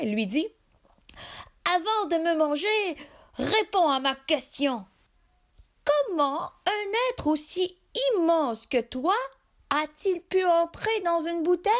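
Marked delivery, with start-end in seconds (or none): 1.8-11.7 higher, sly fisherman voice. Acted. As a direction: ask like a cunning fisherman. Clever fisherman asks.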